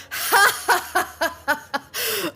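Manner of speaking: loud, high booming belly laugh; hearty dwarf laugh. Acted. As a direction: laugh big like a tipsy dwarf. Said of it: "looks at you and goes".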